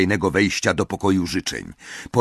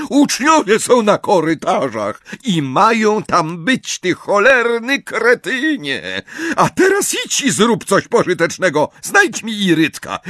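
much higher, loud furious rebuke; angry scolding; 10 semitones higher, 4 dB louder than usual. Acted. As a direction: tear into him. McGonagall berates Filch.

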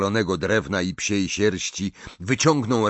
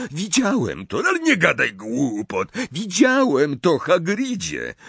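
much higher, desperate insistence; insistent Harry; 7 semitones higher than usual. A narrator's reading. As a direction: make him believe you. (Harry rozpaczliwie nalega, wysoko)

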